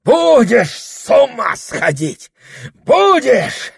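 очень высоко и громко; грози; грозный крик. Acted. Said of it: "грозил дьякон". (дьякон грозит Прохору)

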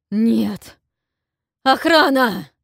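desperate cry building to a yell; shout for the guards. Acted. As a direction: fight it, then scream for help. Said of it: "крикнул он во весь голос".

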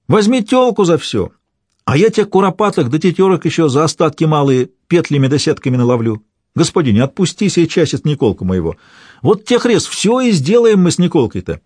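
high, earnest begging voice; pleading old father. A narrator's reading. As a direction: beg the boyar to release his son.

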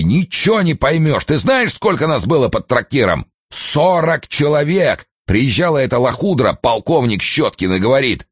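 angry rant. Acted. Ranting officer continues.

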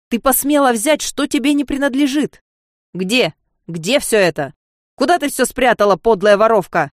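loud, raging interrogation; angry accusation. Acted. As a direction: threaten her as you advance. Serge advancing in rage. (Серж в ярости наступает)

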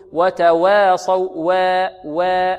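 "وتواصوا" with waa bent into "wee"; student's imala mistake. Retold or imitated. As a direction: mimic the student tilting the a in "وتواصوا" towards e. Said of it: "هذا تقليل أو إمالة كبرى".

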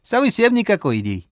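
put-on Bao warns in broken accented Russian; Chinese accent Russian. A narrator's reading. Bao's accented speech.

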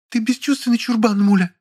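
high female character voice, whiny; Lilya, petulant. A narrator's reading. Lilya pleading with the narrator, high and petulant. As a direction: play the pouting woman, pitched high.

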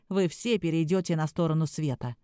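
low, ominous threat; mock-menacing warning voice; sinister voice. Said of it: "продолжал запугивать он вампиров".

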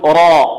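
"راء" with a thick, full R and dark vowel; heavy ra. Shown as a demonstration. Teacher shows the open-vowel case, heavy ra. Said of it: "متى تفخم؟".

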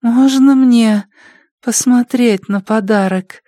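high, slow, eager addict voice; curious junkie. Acted. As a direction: ask slowly and eagerly, up high. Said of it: "С любопытством улыбнулась Полли".

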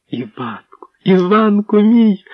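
high, slow joyful cry of his name; wailing call. Acted. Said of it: "заволала вона". (радісно заволала, високо й повільно)

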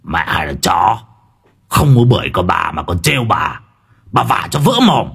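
a hint of a gruff mannish threat; lightly voiced mannish girl threatening; mannish hiss. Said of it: "rít lên bằng cái giọng đặc đàn ông".

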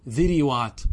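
ذروات as "dhiriwaat", short i after ذ and ر; drawn-out "dhi-ri-waat" for ذروات; kasra on both. Shown as a demonstration. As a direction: say ذروات slowly with two i vowels. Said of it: "ذروات لا يجوز".

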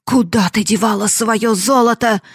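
loud, high, scornful yelling; father shouting at his wife and daughter; furious shout. Acted. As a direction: bark it all at them in rage. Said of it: "закричал он".

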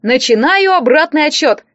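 a hint of a shouted announcement; mock yell. Larisa starts the countdown, a mild mock yell. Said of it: "неожиданно завопила она".

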